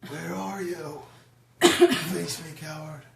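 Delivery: high, loud in-character challenge; ranting yell. Acted. Player's character calls out a hidden foe, ranting yell. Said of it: "ranting and raving and yelling".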